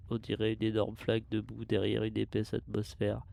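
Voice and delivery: steady mechanical log voice; robot voice. Acted. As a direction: read it like a ship's computer. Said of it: "je fais une voix de robot".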